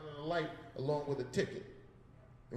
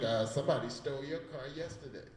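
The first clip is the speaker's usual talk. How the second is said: nonchalant; 4 dB quieter than usual. Retold or imitated. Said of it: "New Jersey attitude, all nonchalant".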